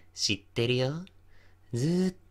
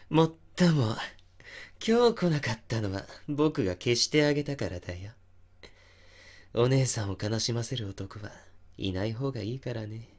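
menacing. Acted. Confessing he killed boyfriend.

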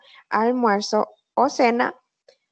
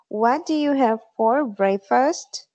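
slow model sentence; slower than usual. Shown as a demonstration. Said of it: "se pronuncia".

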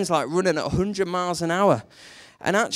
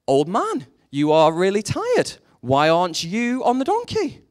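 a touch of puzzled questioning, pitched up; mock disbelief; 5 semitones higher, 4 dB louder than usual. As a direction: lightly act a baffled passer-by. Passer-by scolding old man in fable.

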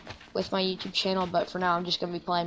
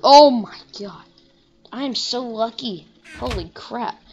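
excited outburst; 4 semitones higher, 8 dB louder than usual. Real, not acted. Lucky find in the game.

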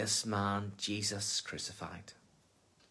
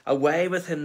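much higher, louder crowd yell; 6 semitones higher, 8 dB louder than usual. Acted. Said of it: "they yelled".

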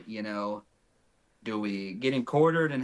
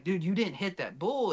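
retold agitated insistence, higher pitch; fired up; 6 semitones higher than usual. Hunting partner disputes the shot, fired up. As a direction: imitate a worked-up partner, without raising volume. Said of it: "He's fired up".

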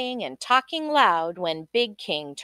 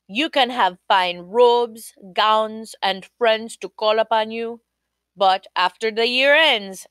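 king's voice; 3 dB louder than usual. Acted. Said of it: "He told Kwashiba".

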